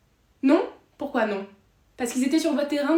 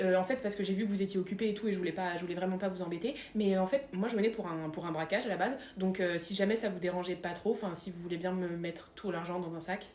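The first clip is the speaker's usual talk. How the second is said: timid robber; 5 semitones lower, 5 dB quieter than usual. Acted.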